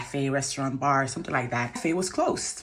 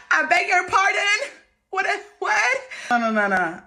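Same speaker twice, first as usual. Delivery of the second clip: outraged disbelief; 9 semitones higher than usual. Real, not acted. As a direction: refuse to believe what you heard. Outraged disbelief at his request.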